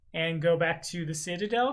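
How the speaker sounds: Citadel said with a rising, questioning tune. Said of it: "question mark?".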